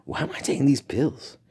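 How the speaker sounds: puzzled self-quote. Retold or imitated. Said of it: "And they'd be like".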